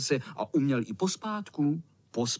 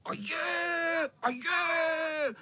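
vysoký škodolibý pokřik; zahulákat z křoví; hulákání; 13 semitones higher, much slower than usual. Acted. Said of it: "zahulákalo to z křoví". (kocour hulákí z křoví, škodolibě)

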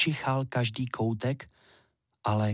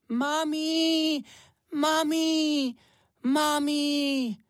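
put-on much higher, happy child calling out; joyful little hare cry; much slower than usual. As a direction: cry out with joy at finding mum. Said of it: "vykřikl radostně".

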